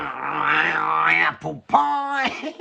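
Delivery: a hammed-up, sing-song cry of "apple pie"; a slow, high, theatrical exclaim; mock exclamation. A jokey exclamation when he realises.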